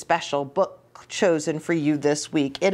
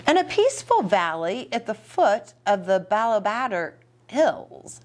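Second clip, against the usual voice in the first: put-on reading to children. Reads story to children.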